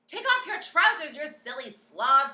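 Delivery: loud mocking shout; jeering kitchen shout. A narrator's reading. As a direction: yell at him, half laughing. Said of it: "someone else shouted".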